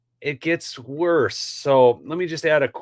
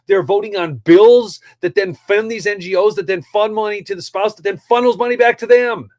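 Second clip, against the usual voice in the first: worked up; 5 semitones higher, 4 dB louder than usual. Real, not acted. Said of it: "Okay, I'm getting worked up".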